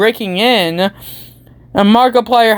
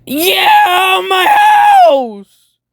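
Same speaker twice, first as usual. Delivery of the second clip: high crying wail, half-hearted; hammed-up crying over a lost house; mock wail; 10 semitones higher, much slower than usual. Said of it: "he's like".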